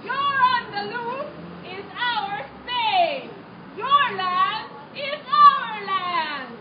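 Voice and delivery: slow, commanding, lightly voiced monarch; a hint of a haughty king; royal decree. King and queen seizing land.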